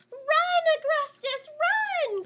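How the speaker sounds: high, loud urgent call; urgent cry. A narrator's reading. Nell telling the prince to run, high and loud. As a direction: urge him to flee. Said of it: "cries Lady Nell".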